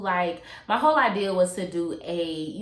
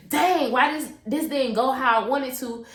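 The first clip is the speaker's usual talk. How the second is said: frustrated disbelief; 5 semitones higher, 3 dB louder than usual. Retold or imitated. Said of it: "where I'm just like".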